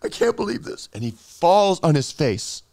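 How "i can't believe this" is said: high, stricken voice; acted shock at your own wrongdoing; stunned realization. Acting Philip's shocked realization.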